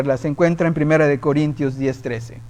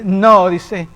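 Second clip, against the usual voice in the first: firm rebuke; 3 semitones higher, 3 dB louder than usual. Retold or imitated. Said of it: "me dice".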